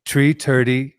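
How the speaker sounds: halting, exaggerated Irish accent attempt; bad Irish accent. Shown as a demonstration. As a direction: have a clumsy go at an Irish accent. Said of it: "My Irish accent".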